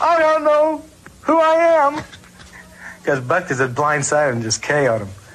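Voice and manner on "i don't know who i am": mock-crying voice, much higher and slower. Retelling how a teammate was knocked out on a punt, imitating Warren crying. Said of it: "sitting on the sideline crying".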